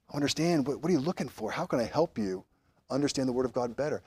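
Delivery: soft, patient inquiry; quiet and conciliatory; gentle questioning. Acted. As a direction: ask softly, seeking to understand. Acting out the patient, listening response.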